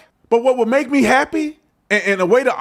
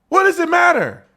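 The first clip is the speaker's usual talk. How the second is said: 1 angrier repeat; 7 semitones higher than usual. Real, not acted. Repeated, louder and higher.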